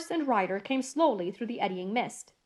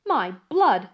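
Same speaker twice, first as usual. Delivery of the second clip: vexed exclamation; 6 dB louder than usual. Acted. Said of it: "ejaculated the vexed coachman".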